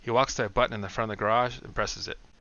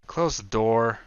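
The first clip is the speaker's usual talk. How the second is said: exasperated; 6 dB louder, much slower than usual. Acted. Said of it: "says an exasperated Brian".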